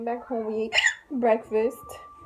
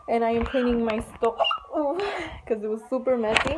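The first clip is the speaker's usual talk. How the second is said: hiccuping between words; hiccups. Real, not acted. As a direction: talk through the hiccups. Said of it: "Excuse my crazy hiccups".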